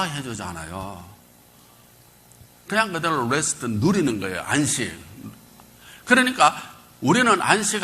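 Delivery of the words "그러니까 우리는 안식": 그러니까 flung out high and loud to the congregation; a pastor hammering home his point; rising preacher shout. Acted. Pastor rouses the congregation with a loud high cry.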